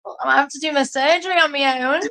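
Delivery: high, fast shocked disbelief. Retold or imitated. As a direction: react like you can't believe it. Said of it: "I'm like".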